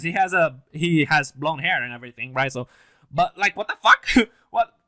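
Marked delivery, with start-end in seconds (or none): 3.1-4.7 loud, high, stunned excitement; can't believe the twist, hyped; real hyped outburst; excited disbelief. Real, not acted. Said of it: "I'm very excited to see that".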